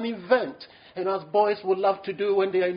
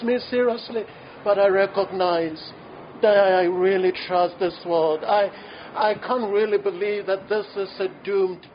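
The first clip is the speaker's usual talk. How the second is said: model prayer. Shown as a demonstration. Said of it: "I will propose to you a prayer".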